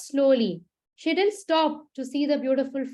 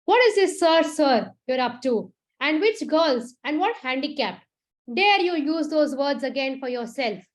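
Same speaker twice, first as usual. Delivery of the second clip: more furious. Acted. Manav scolding Meera for calling herself handicapped, furious. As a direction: lash out at her self-pity. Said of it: "got more furious".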